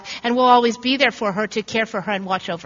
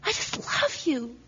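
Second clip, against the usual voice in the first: tender hush; 12 dB quieter than usual. Retold or imitated. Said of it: "she cries out again".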